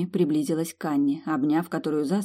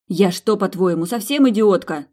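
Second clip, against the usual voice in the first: retort; 3 semitones higher, 6 dB louder than usual. Acted. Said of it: "парировала Милдред".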